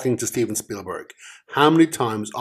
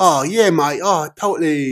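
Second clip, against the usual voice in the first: higher, louder mocking voice of his mate; mocking impression of his cohost; 5 semitones higher, 4 dB louder than usual. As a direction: play up your friend's voice to tease him. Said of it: "I don't sound like that".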